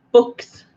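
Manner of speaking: "books" said short and punched; demonstrated pronunciation. Shown as a demonstration. Comparing accents with viewers, short demonstrated "books". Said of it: "We say".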